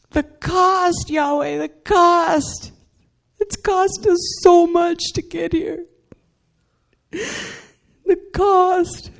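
high, slow, pleading, nearly breaking; stubborn plea to God. Retold or imitated. Stubborn woman arguing the cost to Yahweh, high and pleading. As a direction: hold on to the cost, begging. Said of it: "because I'm just that stinking stubborn".

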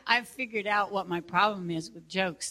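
usual speaking voice

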